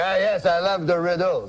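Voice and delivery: lightly voiced French-accented character; French-Canadian uncle accent. Uncle answers cab driver's riddle offer in French accent. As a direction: put on a mild French accent. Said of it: "That's how he talks".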